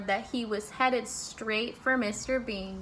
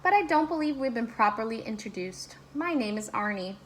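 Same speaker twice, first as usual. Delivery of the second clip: sweetest voice. Acted. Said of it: "said in his sweetest voice".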